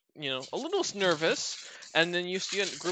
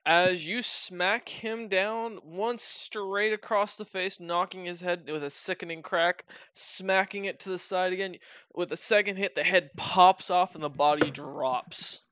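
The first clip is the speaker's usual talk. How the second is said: dramatic game master narration. Acted. GM narrates the kill.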